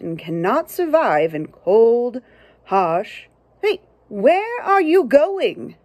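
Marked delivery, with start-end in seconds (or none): 3.6-5.8 high, slow, curious little turtle voice; a small turtle calling after someone. Acted. Turtle calling after the book's narrator, high and slow.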